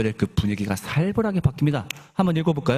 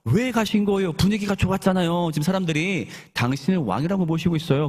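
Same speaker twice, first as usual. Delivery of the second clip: higher-pitched, mock protest to a teacher; lightly acted remonstrance, pitched up; confronting complaint; 4 semitones higher than usual. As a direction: play the puzzled crowd demanding answers. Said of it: "붙잡아서 따지는 거예요".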